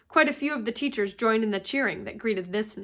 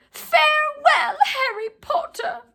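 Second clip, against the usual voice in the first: very high, slow and solemn elf voice; farewell elf; 14 semitones higher, 5 dB louder, slower than usual. A narrator's reading. House-elf taking leave of Harry, high and solemn. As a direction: bid him goodbye like a devoted little servant. Dobby says goodbye.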